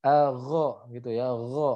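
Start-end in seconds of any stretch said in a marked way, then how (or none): 0.3-0.7 gha with a throaty, rasped gh; snoring gh. Shown as a demonstration. Teacher introduces the letter ghain, snoring throat sound. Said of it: "dia mendengkur ya". 1.3-1.7 gha with a throaty, rasped gh; snoring gh. Shown as a demonstration. Teacher introduces the letter ghain, snoring throat sound. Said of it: "dia mendengkur ya".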